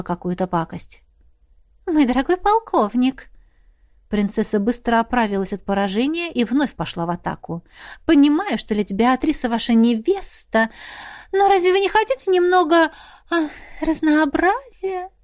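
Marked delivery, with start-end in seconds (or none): 1.9-3.3 higher sweet call; coaxing princess. Acted. 8.0-15.1 sultry princess. Acted. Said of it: "томно облизнулась".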